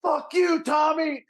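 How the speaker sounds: high heckling shout; retold yell. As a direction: holler it as if across a room. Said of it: "yells from across the room".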